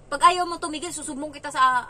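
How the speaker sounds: put-on loud, exasperated warning to a child; retold annoyed threat. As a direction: threaten to tell on them, as retold. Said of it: "Tapos napikon talaga ako". (naiinis na pagbabanta)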